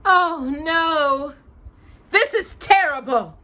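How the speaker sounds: loud, high dismayed outcry; alarmed cry. Acted. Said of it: "Flora cried".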